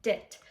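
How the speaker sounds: DIT short and light, cleanly detached. Shown as a demonstration. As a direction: say "dit" like a bouncy staccato note. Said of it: "they're light and detached".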